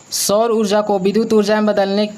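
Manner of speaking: normal talking voice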